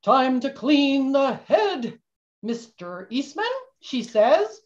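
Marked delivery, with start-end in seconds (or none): 0.0-3.4 captain's order. Shown as a demonstration. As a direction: give the order slowly to the first mate. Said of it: "if I say to Henry Eastman".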